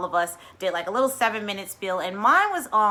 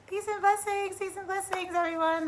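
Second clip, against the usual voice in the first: much higher, lilting blessings to everyone; high sing-song greeting; 11 semitones higher, 4 dB quieter than usual. Real, not acted. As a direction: greet them brightly, up high.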